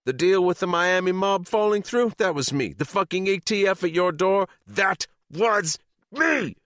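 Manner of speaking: high, loud triumphant scream, dragging out the last me. Acted. Sadie screams her sabotage at the club men, high and triumphant. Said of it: "she screamed".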